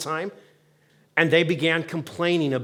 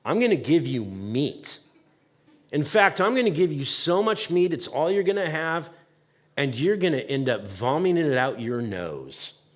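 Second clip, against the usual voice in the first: exasperated God; 2 semitones lower, 3 dB quieter than usual. Retold or imitated. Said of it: "And God's like".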